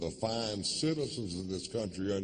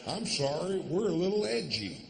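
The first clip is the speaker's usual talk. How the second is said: mock apology; 9 semitones higher than usual. Mock apology after rant.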